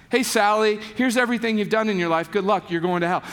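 quick, offhand rundown of sins; mock condemning lecture. Shown as a demonstration. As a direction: toss off the damnation like small talk. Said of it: "the lectures would probably look a little bit like this".

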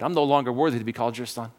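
low rattled-off inner refrain; tape on repeat. Acted. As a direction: recite it to yourself by habit, quickly. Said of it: "He's playing those tapes in his head".

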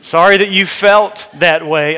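a passive-aggressive "Sorry that you felt that way"; mock non-apology. Shown as a demonstration. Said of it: "uh-uh".

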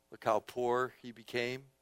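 low, soft "how poor he became"; quiet, subdued marvelling; hushed wonder. Real, not acted. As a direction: drop the voice humbly on "poor he became". Contrasts rich Word with poor.

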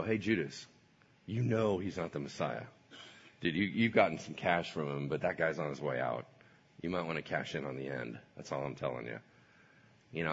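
low, soft persuasive; hushed tempting voice; quiet sly tempter. Acted. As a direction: coax him quietly. Satan tempting Judas.

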